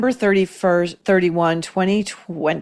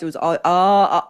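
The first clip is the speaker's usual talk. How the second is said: broad Boston Brahmin "ah", no r; mock her Boston Brahmin "ah"; affected Boston Brahmin vowel. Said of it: "in her fake Boston Brahmin accent".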